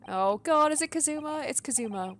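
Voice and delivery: blurted high and loud; real alarm at sudden realization; alarmed dread. Real, not acted. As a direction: exclaim it, dreading the answer. Fears friend is the victim.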